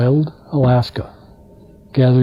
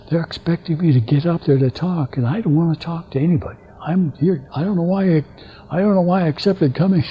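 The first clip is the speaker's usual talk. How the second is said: quick, hushed, anxious pleading; nervous; 3 semitones higher, 4 dB quieter than usual. Retold or imitated. Delegate confides to Sam she dreads speaking, nervous and hushed. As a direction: rush it like a scared first-time speaker. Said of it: "She was really nervous".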